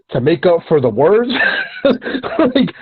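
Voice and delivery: laughs out the words, pitch jumping high; laughing. Real, not acted. To his cohost, laughing at rappers who can't rhyme. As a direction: break into a real laugh mid-rant.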